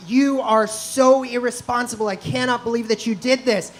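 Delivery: mildly mock-scolding the son; retold dad's lecture, lightly voiced; berating dad. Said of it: "berates me".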